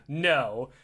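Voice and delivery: low, deadpan one-word refusal; terse guard. Retold or imitated. Guard shuts down Jerry's small talk, terse guard. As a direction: give a low, unfriendly guard's answer.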